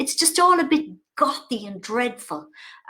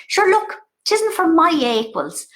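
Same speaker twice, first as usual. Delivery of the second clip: slow, raised Irish mother's dismissal; mammy voice; 6 semitones higher, 5 dB louder, slower than usual. Retold or imitated. Mother dismissing the show on the phone, slow and prim. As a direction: pronounce it slowly and primly. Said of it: "she rang me again and she said".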